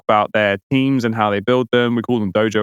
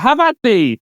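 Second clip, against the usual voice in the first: mock battle shout; 12 semitones higher, slower than usual. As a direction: bellow it like a charging knight. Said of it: "he would still shout".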